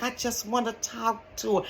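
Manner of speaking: creepy guy. Retold or imitated. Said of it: "this how he said".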